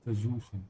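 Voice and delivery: Versuchen with the S voiced like a Z; northern version: Versuchen starting with a buzzing Z; northern German S. Shown as a demonstration. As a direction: say the S in Versuchen as a soft Z. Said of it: "you pronounce it more like a Z".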